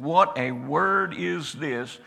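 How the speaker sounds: slow, loud amazed exclaim; amazed crowd. Acted. The amazed people in the synagogue, loud and slow. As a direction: marvel aloud at his authority. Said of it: "and they said".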